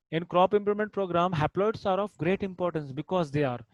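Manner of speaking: drawn-out classroom read-aloud; slow dictation. Shown as a demonstration. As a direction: slowly read out the exam question. Teacher rereading question.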